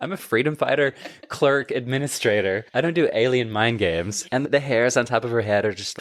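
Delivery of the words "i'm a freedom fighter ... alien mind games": ordinary delivery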